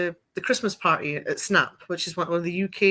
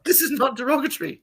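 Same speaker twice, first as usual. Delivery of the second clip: whisper; 6 semitones higher than usual. Retold or imitated. Whispered aside in retold talk.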